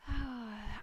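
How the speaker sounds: sigh. Real, not acted. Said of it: "I'm getting a little emotional".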